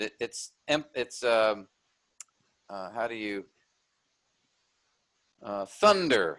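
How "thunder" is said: "thunder" with more weight on THUN than on der; THUN-der, first syllable emphasized; stress on THUN. Shown as a demonstration. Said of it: "you pronounce thun more than the der".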